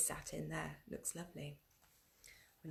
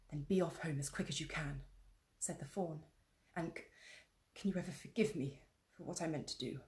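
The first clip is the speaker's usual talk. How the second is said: a hint of an urgent, guilty faun; lightly voiced remorseful faun; anxious faun; 2 semitones lower, 5 dB quieter than usual. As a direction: hurry her off, then ask forgiveness. Faun urges Lucy home.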